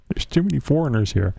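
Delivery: quick mock Scottish accent; heavy Scottish accent. Host repeating the dad's punchline, imitated Scottish accent. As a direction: toss off the line as a Scottish dad. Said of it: "in a heavy Scottish accent".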